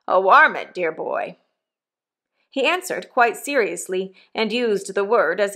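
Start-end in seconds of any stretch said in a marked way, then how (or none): 0.1-1.4 a lightly voiced rough old convict, louder; hint of a coarse old convict talking to his boy. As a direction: give the old convict a bluff, hearty push. Convict Magwitch voiced in story.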